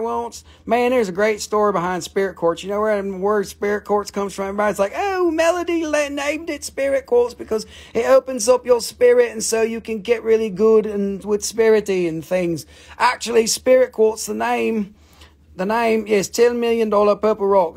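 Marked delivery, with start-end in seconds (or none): 5.0-12.7 mock gushing buyer. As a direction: imitate an airy crystal believer. Mimicking gushing crystal buyers.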